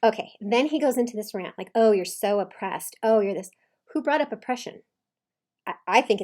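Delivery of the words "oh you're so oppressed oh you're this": mocking. Coach imitating husband ranting at wife, loudly mocking. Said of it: "but he's mocking her".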